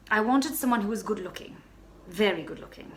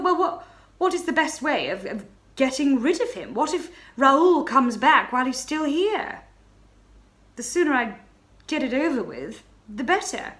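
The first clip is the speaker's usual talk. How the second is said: panicked; 5 semitones higher, 6 dB louder than usual. Acted. Panicked inner thought.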